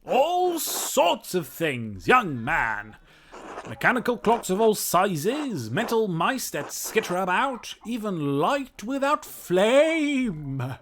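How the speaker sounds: slow, grand kooky inventor voice; mad scientist. Acted. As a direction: savour each marvel like a mad scientist. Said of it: "like a mad scientist voice".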